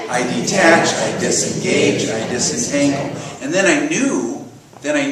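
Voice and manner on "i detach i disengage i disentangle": louder, deliberate call for all to join; group recitation. Shown as a demonstration. Teacher leading the congregation in an affirmation together, group recitation. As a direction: lead the room in firm unison.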